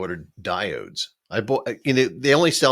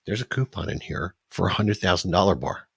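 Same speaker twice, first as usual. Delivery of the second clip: mock ad excitement; 4 dB louder than usual. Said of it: "they're like".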